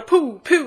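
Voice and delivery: playful spoken "poo" laser zaps; imitated blaster shots.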